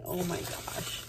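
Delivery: a gasp of wonder, barely voiced; awed whisper. Real, not acted. Opening happy mail, whispering in awe. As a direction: breathe it out in a hushed whisper.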